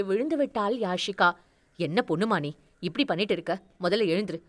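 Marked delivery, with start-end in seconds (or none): 1.8-4.4 a hint of a stern elder telling her off; mild scolding. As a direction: lower older doctor, lightly scolding. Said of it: "அவர் அதட்ட". (தாழ்ந்த குரலில் லேசான அதட்டல்)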